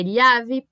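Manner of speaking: "llave" said as "yave"; Spanish "llave" with a y sound. Shown as a demonstration. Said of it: "Mas pode ser llave".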